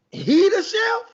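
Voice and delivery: mock disbelief. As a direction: scoff like a doubtful customer. Diners doubting the chef.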